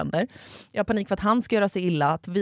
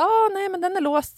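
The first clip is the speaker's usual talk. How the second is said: delivery man; 10 semitones higher than usual. Retold or imitated. Delivery man voiced, discovering lock.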